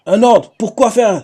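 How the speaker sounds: slow, breathless whisper; Luffy asks the voice why, in a whisper; whispered question. Retold or imitated. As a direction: whisper it slowly as if puzzled. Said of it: "C'est lui qui dit ça".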